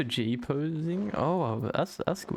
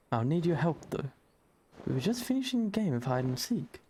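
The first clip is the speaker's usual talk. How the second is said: put-on eager young boy; 3 semitones higher than usual. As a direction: play the boy Yozan, eager and friendly. Voicing the boy Yozan.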